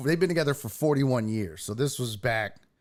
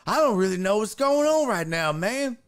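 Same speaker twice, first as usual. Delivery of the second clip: high mock voice of someone barely there; aloof, clueless guy; 9 semitones higher, 3 dB louder than usual. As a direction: lightly play a man lost in his own world. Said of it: "they're just aloof".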